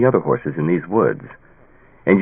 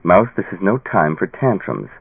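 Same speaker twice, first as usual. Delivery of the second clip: softened voice. Acted. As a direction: ease off and soften toward her. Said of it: "He softened his voice".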